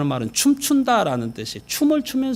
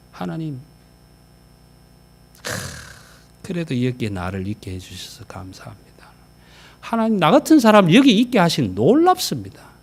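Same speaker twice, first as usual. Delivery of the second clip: grateful prayer. Shown as a demonstration. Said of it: "이렇게 감탄할 게 아니고".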